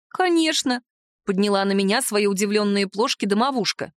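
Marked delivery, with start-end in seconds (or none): 0.1-0.8 high, wide-eyed answer; surprised house spirit. Acted. House spirit answers the heroine, high and surprised. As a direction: answer as if it is obvious, pitched high.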